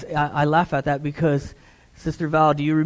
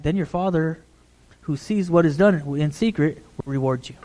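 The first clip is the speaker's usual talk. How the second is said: hurried, casual run through the verse; rushed scripture reading. Shown as a demonstration. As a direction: get through the reading and be done. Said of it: "we're reading the Scripture like this".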